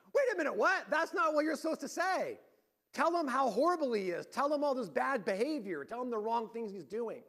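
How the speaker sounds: high, loud indignant disbelief; the crowd can't believe its ears; shocked crowd. Retold or imitated. Religious people objecting to Jesus' lunch invitation, loud shocked protest. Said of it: "And the people go".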